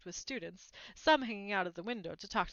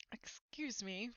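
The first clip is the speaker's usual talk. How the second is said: timid; 9 dB quieter, slower than usual. A narrator's reading. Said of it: "Harry said to the plump woman".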